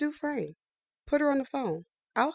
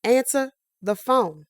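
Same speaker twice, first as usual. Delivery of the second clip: louder, pleading into the phone; desperate; 4 semitones higher, 4 dB louder than usual. Acted. Harper shouting into a dead phone line, desperate. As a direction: demand an answer, voice rising.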